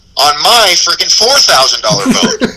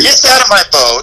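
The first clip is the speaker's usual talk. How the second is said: angry; 5 semitones higher than usual. Retold or imitated. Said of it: "I'm pissed".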